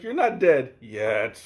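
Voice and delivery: slow, ominous echo of a warning; ominous mock quote. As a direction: drag it out like a dark omen. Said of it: "It's like".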